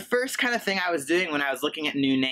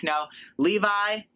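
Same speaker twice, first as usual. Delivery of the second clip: a higher, slow imitated call of the name; barista calling out; 6 semitones higher, slower than usual. Starbucks barista calling out a name, lightly imitated. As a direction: mimic the barista calling the order. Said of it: "I would hear them call at Starbucks".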